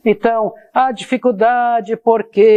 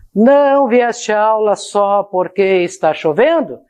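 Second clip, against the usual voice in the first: a single question, intonation landing on "chovendo" at the end; no break before "porque", question tune on "chovendo"; one continuous question; 2 semitones higher than usual. Shown as a demonstration. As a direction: run it through "porque" unbroken and lift "chovendo". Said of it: "A entonação é aqui".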